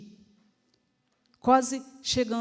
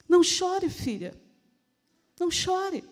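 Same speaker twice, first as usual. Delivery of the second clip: tender plea falling away to a hush; compassionate; 4 semitones higher than usual. Acted. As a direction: console a weeping daughter gently. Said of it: "foi um não chore de compaixão".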